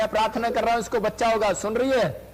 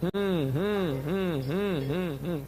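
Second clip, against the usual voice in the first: slow low hum sinking softer; slow prayer hum, lower and softer; low fading hum; 4 semitones lower, 5 dB quieter, slower than usual. Real, not acted. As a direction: let the hum sink away. Hums, fading out.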